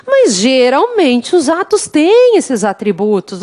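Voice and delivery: slowed delivery leaning on "Mas"; teacher slowing down to drive the point home; slow emphasis. Shown as a demonstration. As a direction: say "Mas geralmente os atos têm esses atributos" slowly, hitting "Mas". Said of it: "Mas são assim, ó".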